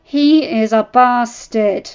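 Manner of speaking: cold retort. Acted. Wife retorts coldly.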